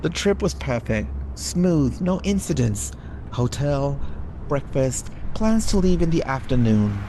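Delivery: suspenseful horror narration; dramatic reading. Acted. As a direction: build dread line by line. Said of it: "read it very dramatically".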